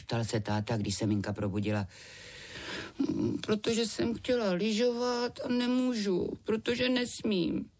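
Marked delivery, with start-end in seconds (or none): 3.0-7.7 put-on high, sulky little girl voice; high child's whine, slowing at the end; whiny girl. A narrator's reading. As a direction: sulk like a child kept in bed. Sick girl complains to dad.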